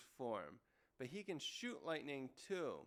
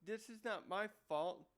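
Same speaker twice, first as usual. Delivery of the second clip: angry retort; 3 semitones higher than usual. Retold or imitated. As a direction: snap back defensively, half in play. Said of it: "gets angry back".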